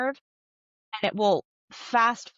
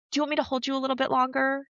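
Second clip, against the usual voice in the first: higher, quick mom offer; nurturing mom; 4 semitones higher, faster than usual. Acted. Mom to toddler after fall, lightly acted caring offer. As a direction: offer comfort, lightly voiced. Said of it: "Mom might say".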